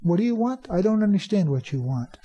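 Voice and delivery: acting out confusion, questions rising; puzzled listener. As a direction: play someone who can't understand. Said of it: "Most people will say".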